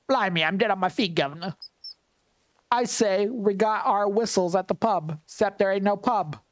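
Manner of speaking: put-on chirpy English Cockney accent for a game villager. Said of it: "He's probably in a really English accent".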